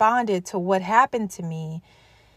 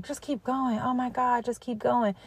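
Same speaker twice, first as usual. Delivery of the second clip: softer, mocking take on a tired slogan; lightly sing-song parody of a pep talk; mock cliche; 3 semitones higher, 6 dB quieter than usual. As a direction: roll your eyes at the cliche as you say it. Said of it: "it's so cliche, guys, to say".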